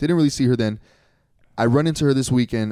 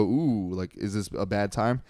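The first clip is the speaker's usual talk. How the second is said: awkward backing off; 6 dB quieter, slower than usual. Retold or imitated. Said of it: "they go".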